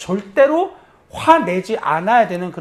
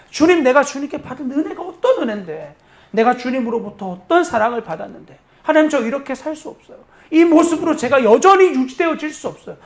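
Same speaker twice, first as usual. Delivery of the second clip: higher, fervent plea to God; a model prayer of repentance, rising and imploring; earnest pleading prayer; 6 semitones higher than usual. Acted. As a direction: beg for grace with growing intensity.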